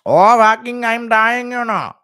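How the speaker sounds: high, loud laughing gasp; Garn impression. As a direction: cackle through the words. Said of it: "Impression of Garn laughing".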